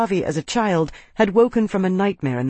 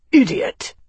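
higher, louder furious yell; angry shout; 9 semitones higher, 5 dB louder than usual. A narrator's reading. Arnas after slapping his advisor, furious yell. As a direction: lash out at him.

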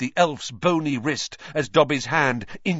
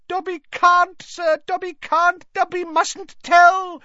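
very high, loud elf squeal; frantic high-pitched refusal; squealing house-elf; 7 dB louder than usual. A narrator's reading. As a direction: squeal in panic like a little elf. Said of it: "squealed the".

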